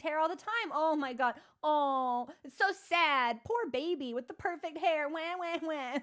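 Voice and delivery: dripping fake pity ending in baby wah-wahs; mock them with syrupy pity; sarcastic mock sympathy. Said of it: "I'm just like".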